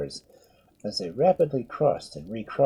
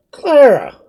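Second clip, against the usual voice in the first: loud, high astonished cry; shocked at who it is; utmost astonishment; 14 semitones higher, 16 dB louder than usual. Acted. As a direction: priest stunned to recognise the girl. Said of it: "cried Father Murphy with utmost astonishment".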